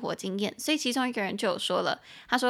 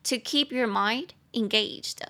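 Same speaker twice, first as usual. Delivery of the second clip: slow model phrase; slower than usual. Shown as a demonstration. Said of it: "repeat of model".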